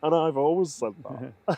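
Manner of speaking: a touch of Aussie catchphrase; Australian accent. Retold or imitated. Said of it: "our terrible Australian accents".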